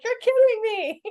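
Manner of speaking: high, crying disbelief; astonished mom. Retold or imitated. Grandmother returning from the bathroom to a newborn, high tearful disbelief. Mom walks in after birth.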